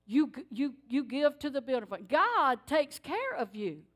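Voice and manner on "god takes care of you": slow, weighty promise; slow emphasis. Real, not acted. Preacher assuring the congregation, slow and weighty. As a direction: press it home slowly. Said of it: "slow emphatic moral".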